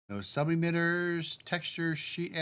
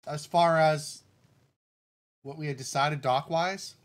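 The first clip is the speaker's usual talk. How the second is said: talking through hiccups; hiccuping between words. Real, not acted. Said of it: "I got the hiccups".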